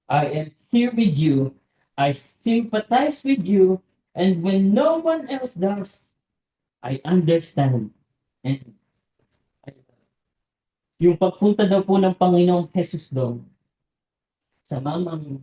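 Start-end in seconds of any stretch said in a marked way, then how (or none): 0.1-11.1 tender. Acted. Tender voicing of Jesus's words.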